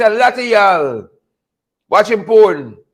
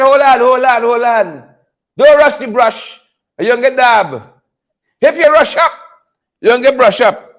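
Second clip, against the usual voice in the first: Sherman voice; 3 dB louder than usual. Retold or imitated. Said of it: "In my Sherman voice".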